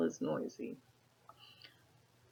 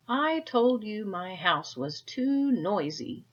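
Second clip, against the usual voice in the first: angry complaint; 4 semitones higher, 4 dB louder, slower than usual. Acted. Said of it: "Now Peter was angry".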